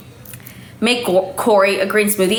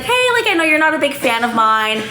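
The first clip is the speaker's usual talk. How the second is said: imitating Brittany; 7 semitones higher than usual. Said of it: "she's like".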